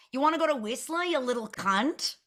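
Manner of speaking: a hint of an Australian accent, rising at the end; mock brash Aussie bloke, lightly done; a light imitation of an Australian ex. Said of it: "with your best Australian accent".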